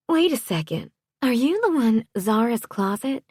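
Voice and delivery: high-pitched, astonished Southern wife; astonished realisation. A narrator's reading. Wife realising who the newcomer is, astonished. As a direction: question her in high-voiced disbelief.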